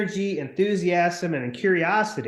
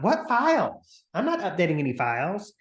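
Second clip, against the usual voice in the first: whiny complaining agent; 6 semitones higher than usual. Retold or imitated. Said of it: "is agents going".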